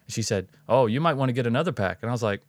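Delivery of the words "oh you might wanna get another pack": lightly mimicked Northeast accent; a touch of Northeast lady in the accent. Shopper advising a stranger to buy more, light Northeast accent. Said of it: "she definitely had that accent".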